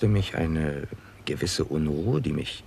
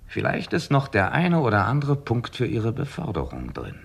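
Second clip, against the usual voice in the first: louder, higher mocking nudge; teasing; 7 semitones higher, 5 dB louder than usual. Nutting teasing Crocker about promotion, loud and high. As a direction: needle him with a smirk.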